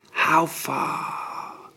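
breathy unvoiced whisper. A narrator's reading. Dying prince whispering to the physician, faint. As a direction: barely breathe the question. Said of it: "whispered Horus".

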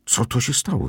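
high-pitched, lightly winded question; breathless question. A narrator's reading. Narrator asks what happened, out of breath. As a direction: ask as if just run up. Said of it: "spytałem zdyszany biegiem".

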